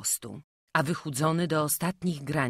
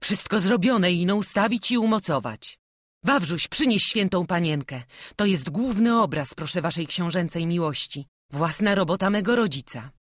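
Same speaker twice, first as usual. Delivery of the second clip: eager craftsman Stanko; 4 semitones higher, 7 dB louder than usual. A narrator's reading. Stanko presents the altar.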